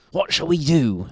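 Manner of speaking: troubled husband, high and loud; Mister Grinling. A narrator's reading. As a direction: ask it as a worried storybook husband. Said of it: "said Mister Grinling".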